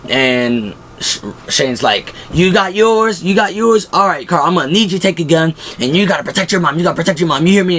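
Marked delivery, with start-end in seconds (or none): 2.3-7.8 pitched up, urgent orders; mock urgent Shane. Shane arming everyone, voiced high and urgent. Shane handing out guns, excited.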